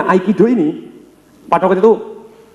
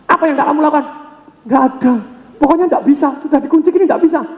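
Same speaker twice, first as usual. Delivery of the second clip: much higher protesting voice; high comic whine; 9 semitones higher than usual. Retold or imitated. Champion protesting Bruce Lee, high comic whine. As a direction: whine that it's impossible.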